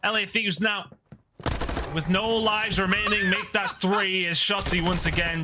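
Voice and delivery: punchy esports caster call; excited play-by-play. Real, not acted. Caster calling a big kill to the viewers, excited play-by-play. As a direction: call the kill with rising energy.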